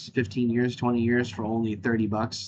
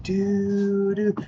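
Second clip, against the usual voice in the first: Ken's sexy man voice; 3 semitones higher, much slower than usual.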